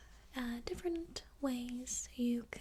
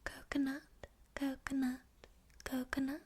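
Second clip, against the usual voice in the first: gentle soft-spoken voice, lightly voiced; calm ASMR soft speaking; faster than usual. Shown as a demonstration. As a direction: say coconut softly with some voice in it. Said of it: "some soft spoken like".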